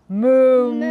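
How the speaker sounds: 높고 크게 길게 뽑는 소 울음 흉내; 소처럼 음메 하고 크게 울어; cow moo. Acted. Cows go moo in story.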